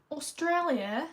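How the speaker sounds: attempted Aussie accent on the word; Australian accent. Streamer slipping into an accent mid-trivia, Australian accent. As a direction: say it with a slow Australian twang. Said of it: "attempted an Australian accent".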